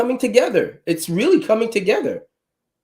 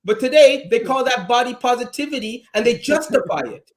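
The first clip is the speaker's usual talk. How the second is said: laughing; 4 semitones higher than usual. Real, not acted. Laughing through the words.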